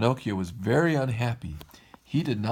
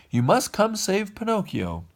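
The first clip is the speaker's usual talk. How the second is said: urgent plea; 10 semitones higher than usual. Acted. Urgent call for help.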